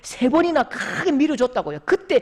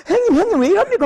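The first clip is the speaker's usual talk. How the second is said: alarmed call; 11 semitones higher, 7 dB louder, faster than usual. Retold or imitated. Finding drunk brother collapsed.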